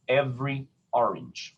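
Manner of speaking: every orange with a clean break before each vowel; glottal onsets. Shown as a demonstration. Teacher demonstrates glottals to singers, every orange separated by glottal onset. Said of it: "glottal is something like".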